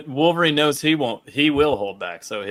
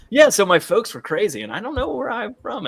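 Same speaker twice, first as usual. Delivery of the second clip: higher, rambling mock boyfriend voice; mock Scott rambling; 8 semitones higher than usual. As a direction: babble on, lightly mocking. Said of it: "Scott going like".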